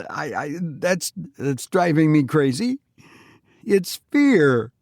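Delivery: frantic defiant confession; agitated outburst. A narrator's reading. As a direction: cut him short, then crack with fear. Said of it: "But the other cut him short".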